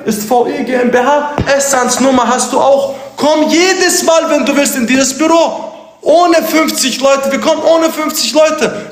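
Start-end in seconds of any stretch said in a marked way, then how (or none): 3.2-8.9 high, slow, shouted invitation. Real, not acted. Challenging a rival streamer to visit, shouting.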